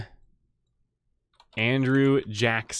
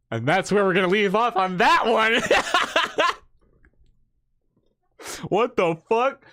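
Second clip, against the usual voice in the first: high, cracking up in disbelief; laughing; 8 semitones higher, 3 dB louder than usual. Real, not acted. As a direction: burst into real laughter as you talk. Cracks up at absurd story.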